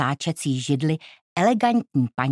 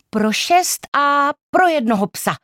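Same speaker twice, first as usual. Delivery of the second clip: brisk aunt; 10 semitones higher, 5 dB louder than usual. A narrator's reading. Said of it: "dodala hbitě".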